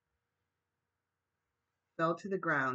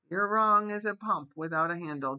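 a little man's sharp, perky reply; chirped retort; 3 semitones higher, 7 dB louder than usual. Acted. Small man contradicts the crowd, chirpy. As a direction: pipe up quick and cocky. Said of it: "chirped a little cricket of a man".

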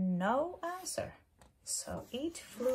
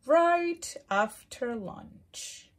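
slow snake voice; 4 semitones higher, 8 dB louder, much slower than usual. Acted. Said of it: "said the snake".

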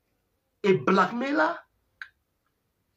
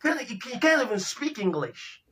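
mock American voice; 3 dB quieter than usual. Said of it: "American says".

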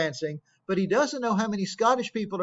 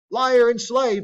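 angry Macbeth; 4 semitones higher, 5 dB louder, slower than usual. Acted. Macbeth rebuking the messenger.

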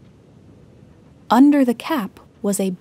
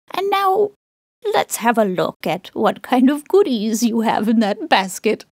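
laughing. Acted. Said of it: "laughs Grandma".

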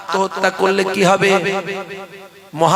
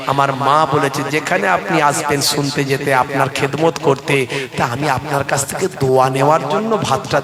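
a hint of a timid boy; 5 semitones lower than usual. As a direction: confess meekly, head bowed. Boy confessing to huzur.

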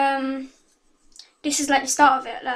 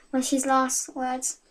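reading her fan story aloud. Acted. Girl reading her story to viewers, storytelling voice. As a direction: read it like a dramatic tale.

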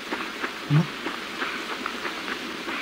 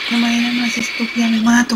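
raging gamer; 6 semitones higher than usual. Real, not acted. Raging after death.

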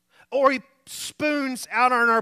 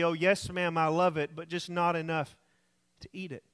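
sweetly; 5 semitones lower, 6 dB quieter than usual. Retold or imitated. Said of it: "replied sweetly".

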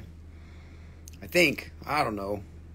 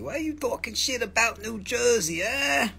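mock indignant viewer; 7 semitones higher than usual. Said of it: "Natalie Catley is like".

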